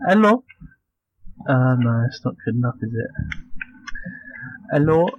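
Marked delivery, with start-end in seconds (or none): 0.1-0.4 higher, louder attempted Indian accent. Host testing accent for intro, attempted Indian accent. 4.7-5.1 attempted Indian accent. Host retrying intro, attempted Indian accent. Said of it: "Do an Indian accent".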